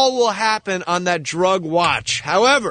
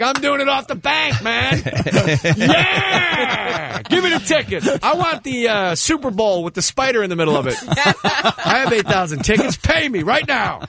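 hyped-up yelling; 6 semitones higher than usual. Retold or imitated. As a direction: brag at the top of your voice. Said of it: "you're like".

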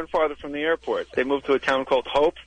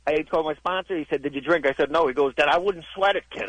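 lightly put-on New Jersey guy; a hint of New Jersey regular-guy accent. Comic plays Jersey guys at an AA meeting, light Jersey accent. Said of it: "doing the wrong regional accent".

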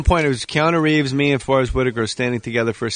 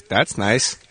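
imitated quote; 6 semitones lower than usual. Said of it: "He goes".

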